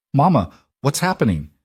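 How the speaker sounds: put-on high, small voice of a frightened child; a scared little girl calling out; child's frightened call to her mother; small terrified voice. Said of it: "Poppy's small voice was terrified".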